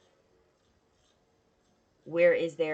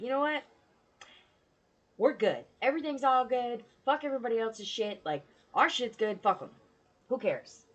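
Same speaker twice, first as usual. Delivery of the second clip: put-on childlike bravado; 5 semitones higher than usual. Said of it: "very childlike energy".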